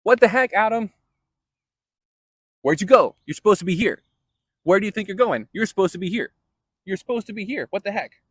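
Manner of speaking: an indignant God who can't find Adam where he left him; baffled exasperated Yahweh. Retold or imitated. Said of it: "Yahweh shows up in the garden and goes".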